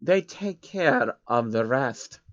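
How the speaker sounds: villain smugly finishing the joke; smirking. Acted. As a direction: let the joke land quietly and slowly. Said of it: "he said with a smirk".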